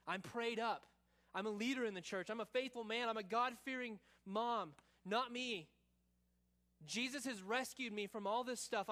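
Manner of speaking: mildly self-assured boasting, building in pitch; confident. Acted. Believer sure that sin couldn't happen to them, increasingly confident. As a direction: start measured, build into insistent certainty. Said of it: "You were confident".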